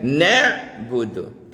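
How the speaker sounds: "Nak budu" said slowly, with the ain in the throat before budu; correct ain in nak budu. Shown as a demonstration. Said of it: "Mesti ini kan ain yang mati". ("Nak budu" dibaca pelan dengan ain yang jelas)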